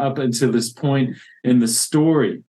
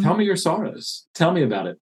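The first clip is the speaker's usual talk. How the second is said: softer, higher and caring; soft tender invitation; 5 semitones higher, 3 dB quieter than usual. Retold or imitated. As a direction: invite him gently to speak. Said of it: "as if he doesn't know already".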